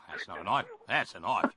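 mock Aussie movie-line delivery; Australian accent. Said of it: "to do my Australian accent".

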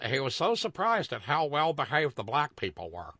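lightly caricatured white person; a hint of mock white-folks astonishment; Richard Pryor white people voice. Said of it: "that's my Richard Pryor white people voice".

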